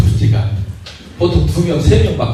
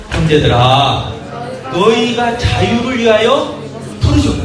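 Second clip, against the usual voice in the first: slow, solemn reading rising in pitch; preacher reading Galatians to the church; scripture reading; 4 semitones higher, slower than usual. Acted. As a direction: intone the verse deliberately. Reads scripture aloud.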